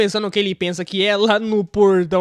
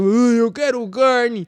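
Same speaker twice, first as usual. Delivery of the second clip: slow, drawn-out zombie groan; hammed-up zombie voice; 4 dB louder, much slower than usual. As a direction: moan it slowly like a hungry zombie. Voicing a hungry zombie.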